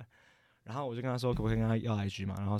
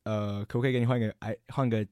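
retold stutter; 2 semitones lower than usual. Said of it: "就是这么结巴".

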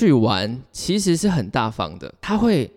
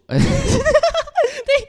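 high burst of laughter; 3 dB louder than usual. Real, not acted. Laughs at own harsh line.

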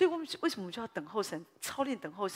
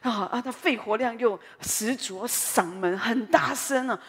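booming voice; 7 dB louder, slower than usual. Retold or imitated. Describing wife's loud scolding voice.

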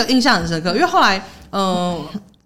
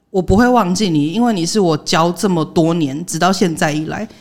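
measured, serious delivery in retelling; very earnest; 3 semitones lower than usual. Retold or imitated. Teacher to former pupil met on a bus, earnest. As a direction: say it slowly and sincerely, as the old teacher. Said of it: "很认真的跟我讲说".

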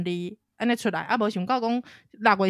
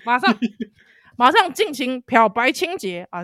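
urgent; 4 semitones higher, 6 dB louder than usual. Retold or imitated. Urgent cleaning, acted loud.

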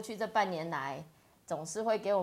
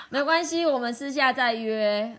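laughing; 4 semitones higher, 7 dB louder than usual. Real, not acted. Laughing reassurance.

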